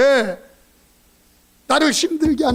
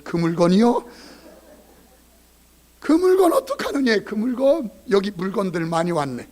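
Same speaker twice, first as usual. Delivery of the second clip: mocking wife's prayer. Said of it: "이 여자분들은 참 못돼서".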